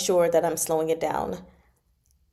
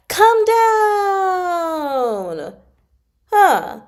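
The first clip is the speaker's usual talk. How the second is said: falling tone demo; 12 semitones higher, 7 dB louder, much slower than usual. Shown as a demonstration. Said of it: "And then the fourth tone".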